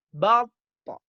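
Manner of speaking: Bato with puffed cheeks and rising pitch. Shown as a demonstration. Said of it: "jadi tahu bedanya". (bato dengan pipi gembung)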